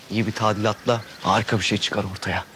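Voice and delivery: ordinary talk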